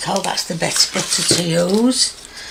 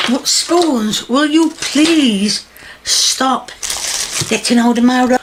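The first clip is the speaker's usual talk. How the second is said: mock scolding; 4 semitones higher, 3 dB louder than usual. Scolding the spoons mock seriously.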